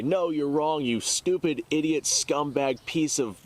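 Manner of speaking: mock angry commenter. Mimicking furious commenters fighting over pronunciation, mild mock rant. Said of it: "it gets very vulgar in the comments".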